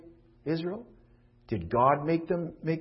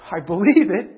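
loud cry of faith; 4 semitones higher, 11 dB louder than usual. Acted. Voicing believer's inner cry.

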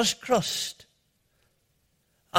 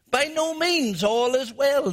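put-on lively old voice; 5 semitones higher than usual. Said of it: "he said".

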